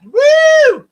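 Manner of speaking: excited cheering woo; loud high whoop. Real, not acted. Cheering a viewer's news.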